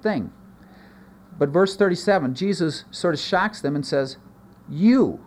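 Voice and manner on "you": "You" punched louder and higher; emphatic you. Shown as a demonstration. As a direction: hit the word "You" hard. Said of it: "it's emphatic in the Greek".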